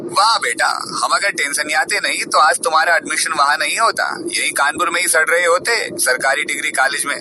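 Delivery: mother needling her son, lightly sarcastic; sarcastic taunt. Acted. Mother taunting son on phone, softly sarcastic. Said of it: "Alka जी एकदम तंज भरे शब्दों में बोली".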